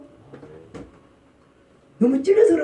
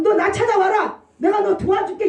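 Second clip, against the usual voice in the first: God's voice; 8 semitones higher than usual. Acted. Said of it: "이 소리거든요".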